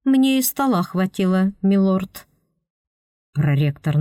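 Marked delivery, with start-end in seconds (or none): 0.0-2.3 confident mock-polite "милорд". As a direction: tease him, "милорд" dripping with mockery. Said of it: "уверенно с издёвкой добавить".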